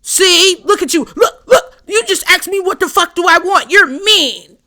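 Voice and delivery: high, loud mock whining; whiny victim. Fake friends whining at Pisces that she's mean, high and loud. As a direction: play the wounded friend.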